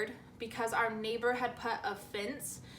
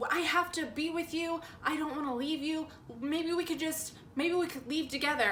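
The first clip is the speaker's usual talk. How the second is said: higher-pitched pleading, mildly panicked; freaking out; 4 semitones higher than usual. Retold or imitated. Boyfriend refusing to leave her, mildly mock-frantic. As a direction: imitate a boyfriend begging to stay. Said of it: "he starts freaking out".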